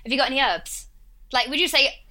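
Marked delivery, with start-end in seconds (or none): 0.0-0.9 Essex "herbs" without the H; Essex accent. Shown as a demonstration. Briton shows how Essex says it, Essex accent with dropped H. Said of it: "we leave out H's with my accent".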